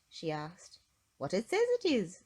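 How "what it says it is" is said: laughing. Acted. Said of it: "laughed Mister Happy".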